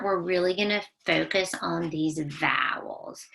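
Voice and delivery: hushed, secretive whisper; playful classroom whisper. Acted. Teacher stresses the new focus.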